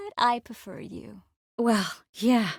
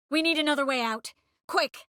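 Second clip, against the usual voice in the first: urgent; 6 semitones higher than usual. Acted. Urgent escape line in game.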